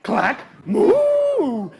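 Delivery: cow moo. Acted. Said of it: "he heard it again".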